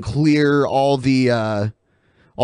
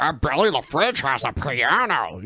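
hint of a mocking impression; lightly put-on voice of an accuser; Brett Keane. Co-host imitating Brett questioning a guest, mocking put-on voice. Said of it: "he's like".

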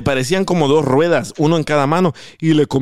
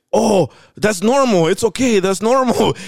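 mock calm paramedic; 5 semitones higher, slower than usual. Calm American paramedic quoted.

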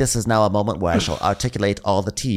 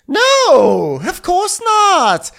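high mock reply; 6 dB louder, much slower than usual. Mocking a castmate's reply.

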